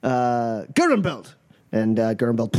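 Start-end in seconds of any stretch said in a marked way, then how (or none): 0.7-1.3 calling out a champion. Acted. Fight master calls the champion up.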